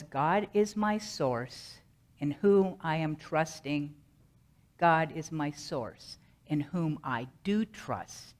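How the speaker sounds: slow, deliberate affirmation; mantra recitation. Acted. Speaker presenting the mantra given by Spirit, slow deliberate recitation. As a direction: recite it slowly, word by measured word. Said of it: "The mantra was".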